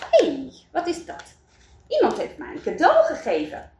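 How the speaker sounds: light, curious wonder at the parcel; surprised Wout. Acted. Wout finds a present. (licht verbaasd, iets hoger)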